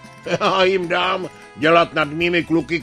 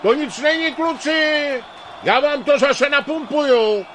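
put-on old coach hollering, much higher and louder; loud, cheerful yell from an old coach; bellowing; 12 semitones higher, 3 dB louder, slower than usual. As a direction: holler it across the pitch to the boys. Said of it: "Hulákal starý Klapzuba".

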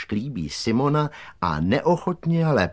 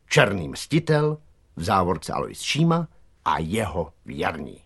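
mildly ceremonial proclamation; solemn reading aloud; 3 dB louder than usual. A narrator's reading. Boy chief reads the rivals' letter to his gang, solemn. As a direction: read out a challenge with measured pomp. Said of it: "Náčelník slavnostně rozbalil papír".

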